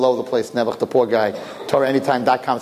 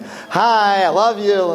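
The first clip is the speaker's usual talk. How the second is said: higher-pitched mock baby-talk greeting; cooing to the womb; 5 semitones higher, much slower than usual. Parent talking to a baby in the womb, cooing. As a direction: coo it sweetly to an unborn baby. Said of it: "they talk to the womb like".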